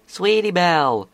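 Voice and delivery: high, loud cry of SWEETIE BELLE; excited shout. Acted. Apple Bloom interrupting to her friend, shouting. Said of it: "Apple Bloom shouted".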